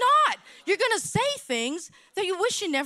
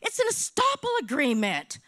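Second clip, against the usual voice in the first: curt retold explanation in the realtor's manner; imitating the realtor. Realtor answering the restaurant owner, mimicked. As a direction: mimic how the realtor announced it. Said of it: "this is exactly how she did to me".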